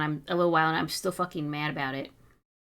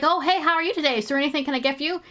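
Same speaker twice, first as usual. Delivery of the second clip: cashier greeting; 8 semitones higher, 4 dB louder, faster than usual. Retold or imitated. Mimicking the cashier greeting another guy, high and sugary. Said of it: "And he's like".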